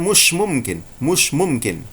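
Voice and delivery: a mild Egyptian Arabic no way; Egyptian Arabic accent. Shown as a demonstration. Teacher demonstrating the Egyptian word for impossible. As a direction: dismiss it the Egyptian way. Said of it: "Mesir akan mengatakan".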